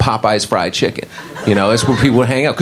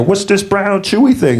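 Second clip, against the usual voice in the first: higher, slow, wondering about the food; LaWanda voice; 9 semitones higher than usual. Retold or imitated. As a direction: LaWanda puzzled over an egg roll. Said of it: "You know".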